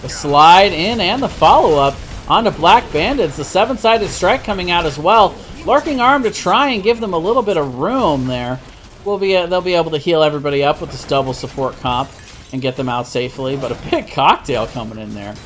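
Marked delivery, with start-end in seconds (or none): 0.0-10.2 animated, slightly raised esports call; live play-by-play. Real, not acted. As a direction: call the fight as it breaks out.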